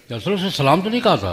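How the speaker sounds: quick indignant appeal; urgent protest. Retold or imitated. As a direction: rush it out as an indignant plea. Aisha pleading to the Prophet.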